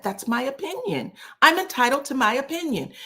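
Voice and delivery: high-pitched imitation of insisting; mock her standing up for herself; defensive insistence. Imitates Sweet Tea defending herself.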